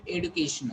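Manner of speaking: "education" as ed-oo-KAY-shun; plain-D "education"; alternative pronunciation. Shown as a demonstration. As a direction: say "education" with hard D, no J. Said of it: "This is American pronunciation".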